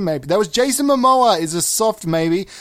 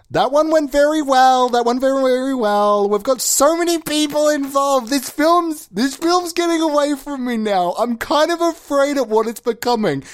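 overwhelmed, pitched way up and easing slightly at the end; rising panic; 7 semitones higher than usual. Acted. Filmmaker fretting the film is getting away from him, high panicked voice. Panicking after a failed call.

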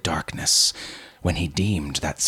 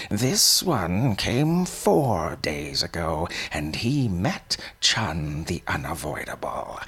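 put-on old man voice. Old man shows corpses.

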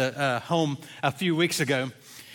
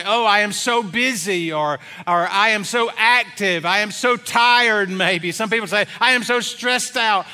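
mock complaints; 3 semitones higher than usual. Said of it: "they'll say".

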